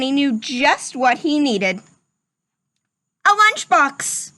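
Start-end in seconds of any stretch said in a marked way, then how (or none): 3.2-4.3 excited discovery. Acted. Rufus's new idea.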